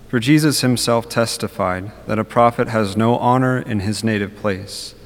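solemn liturgical reading voice; Gospel reading. Acted. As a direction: proclaim the Gospel measured and steady.

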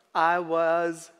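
lightly imitated slow Southern film-character drawl; a light go at Forrest Gump's accent. Preacher cues listeners with a movie quote, lightly imitated accent. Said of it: "say it in his accent".

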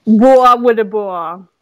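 imitating a catchphrase. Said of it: "came from Detroit".

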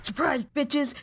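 big jubilant reveal; excited reveal. Acted. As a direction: burst out shouting surprise. Bursting out of the closet.

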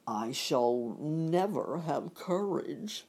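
slow, mournful lion; a timid lion admitting defeat; lightly voiced lion, slow; lion's voice. The lion's lament, quoted in the story.

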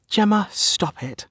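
put-on high, drawn-out young woman's protest; smiling protest. A narrator's reading. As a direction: smile through a slow, high "stop it".

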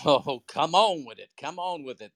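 high, loud "come on with it"; hyped up agreement; excited cheer. Real, not acted. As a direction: cheer the speaker on. Excited cheer at speaker's point.

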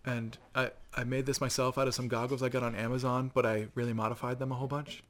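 softly voiced gentle nerd; understated nerd impression; total nerd. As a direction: drop the volume, a sheepish hobbyist. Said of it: "like, total nerds".

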